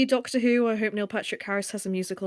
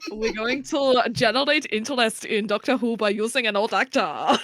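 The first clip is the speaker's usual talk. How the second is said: laughing mock executive.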